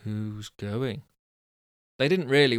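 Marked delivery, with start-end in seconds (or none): 0.0-1.0 quiet, nervous "Who's going?" with a rising end; timid "Who's going?" rising at the end; with trepidation. Shown as a demonstration. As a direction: ask it warily, softly. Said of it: "so that should be said like this".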